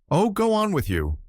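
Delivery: high, flirty squeal; coquettish cry. A narrator's reading. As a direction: play it coy and delighted. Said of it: "cried Miss Taylor coquettishly".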